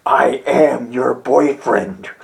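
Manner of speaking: low, slow mock Vader; a light Vader impression; gay Darth Vader. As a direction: intone it like Darth Vader, deadpan. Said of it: "You have Darth Vader saying".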